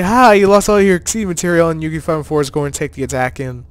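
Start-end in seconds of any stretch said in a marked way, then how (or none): 0.0-1.7 taunting gloat. Retold or imitated. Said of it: "Just like".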